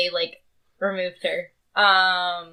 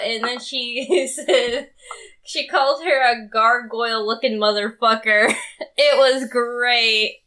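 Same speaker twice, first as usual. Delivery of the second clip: laughing. Real, not acted. Laughing while retelling friend's insult.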